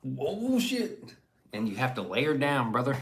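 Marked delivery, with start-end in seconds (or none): 0.0-1.1 startled yelp. Retold or imitated. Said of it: "you're just like".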